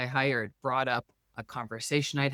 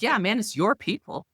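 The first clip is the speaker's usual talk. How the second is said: higher, playful mock-dude voice; teasing retort; 8 semitones higher, 3 dB louder than usual. Teasing her English husband about the school, a playful voice. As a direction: tease him back, lightly. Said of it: "And I was like".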